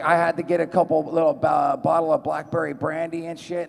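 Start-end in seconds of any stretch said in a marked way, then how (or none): none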